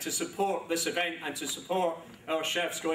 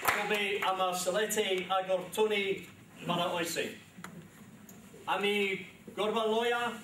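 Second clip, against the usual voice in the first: Sylheti with Cockney accent; 3 semitones higher than usual. Real, not acted. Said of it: "with my classic Cockney accent".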